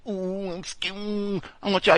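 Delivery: high mocking whimper, mimicking the officer; mock scared whine. Comic mimicking the police spokeswoman, high and whiny. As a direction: sneer at the complainers in a high fake-frightened whine. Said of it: "she said".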